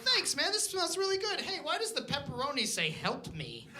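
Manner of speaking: a hint of a cheerful customer turning puzzled. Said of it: "they're like".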